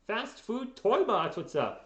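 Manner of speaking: high, slow, drawn-out greeting; silly greeting voice. Acted. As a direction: stretch the name out in a goofy voice. Greets chatter in a put-on voice.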